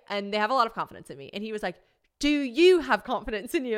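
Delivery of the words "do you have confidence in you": raised, louder sceptical question; pointed challenge. Retold or imitated. James questions whether his friend can ski it, pointed challenge. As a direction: press the doubt home.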